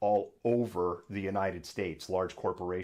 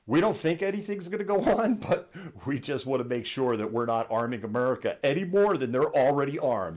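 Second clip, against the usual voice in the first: laughing; 4 semitones higher, 4 dB louder than usual. Real, not acted. Laughing through corporate excuse.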